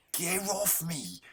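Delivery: high, slow exasperated yell. Real, not acted. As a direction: stretch it out, fed up. Gamer yells at attacking enemy.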